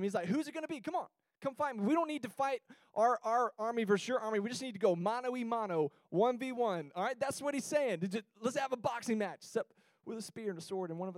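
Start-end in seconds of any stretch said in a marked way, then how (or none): 0.3-6.9 taunting giant. Retold or imitated. Giant taunting the enemy army to fight, pitched-up mock challenge. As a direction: goad them like a swaggering champion. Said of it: "He's just antagonizing them".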